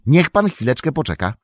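a touch of excited haste; eager cry. Acted. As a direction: call out with keen readiness. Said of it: "krzyknął z zapałem sam".

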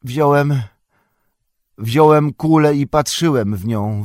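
frightened hobbit stammering it out. A narrator's reading. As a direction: stumble on the first word and restart. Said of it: "wyjąkał Pippin".

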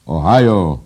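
loud, high crow of a cry; high treble crowing. A narrator's reading. Editor exulting over Ohio, crowing shrilly. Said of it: "zapiał naczelny wysokim dyszkantem".

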